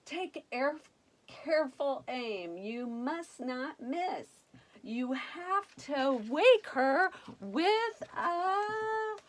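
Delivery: fairy voice. Acted. Fairies instructing the prince.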